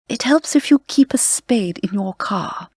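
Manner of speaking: lightly imitating an old-school British radio presenter. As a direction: elegant British stage voice, only hinted. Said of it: "This woman with this incredible, not Canadian accent, but British voice, as if she'd been trained in the theater".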